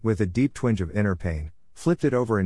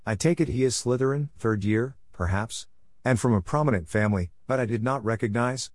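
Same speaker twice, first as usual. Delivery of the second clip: lightly voiced oily salesman; a hint of unctuous, ingratiating flattery; 3 semitones higher than usual. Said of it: "ask in his oily voice".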